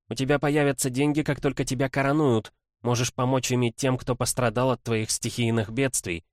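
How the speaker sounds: brisk lawyerly princess voice, lightly voiced; quick, eager legal rattle; young woman voice. Kimbodzha argues with brother.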